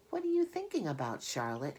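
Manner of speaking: bright eager little pig; piglet voice. Acted. Wilbur voiced, asking Charlotte.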